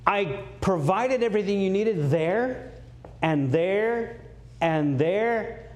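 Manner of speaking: each "there" drawn out and set apart; stress on THERE. Shown as a demonstration. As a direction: pause after each long "there". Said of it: "put my emphasis on it here".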